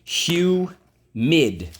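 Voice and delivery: rising teacher call of Humid; model word loudly. Shown as a demonstration. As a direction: announce Humid to the class, high and strong. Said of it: "let's go".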